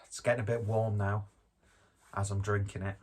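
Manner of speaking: breathless and winded; out of breath. Real, not acted. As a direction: talk while short of breath. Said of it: "Don't know why I'm instantly out of breath".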